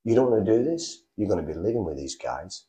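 divine voice. Retold or imitated. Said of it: "And this voice said".

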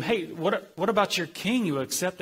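lightly mock them with the question. Pilate needling the crowd about their king, mildly mocking. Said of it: "he kinda mockingly told them".

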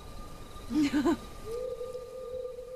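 soft, private little chuckle; chuckle to himself. Acted. Brother chuckling to himself after promising to keep a secret, soft chuckle. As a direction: chuckle quietly under your breath. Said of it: "He kind of chuckles to himself".

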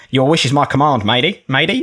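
put-on half-hearted Australian accent, drifting pirate; Aussie accent attempt. Reading the Rag's message in a shaky Australian accent. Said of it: "I don't know if I can do the Aussie accent".

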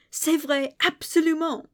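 high, loud overdone posh French; hammed-up snooty French exclamation. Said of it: "puts on an overly posh voice".

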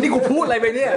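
high-pitched laugh through words; sheepish laugh; laughing at himself. Real, not acted. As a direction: laugh at your own gaffe. Laughs at own slip.

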